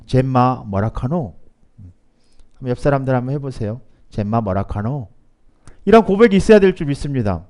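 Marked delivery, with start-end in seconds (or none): 0.0-1.4 slow Gyeongsang dialect question. Shown as a demonstration. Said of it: "투박한 경상도 사투리로". 4.1-5.1 lightly voiced Gyeongsang dialect. Shown as a demonstration. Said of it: "투박한 경상도 사투리로".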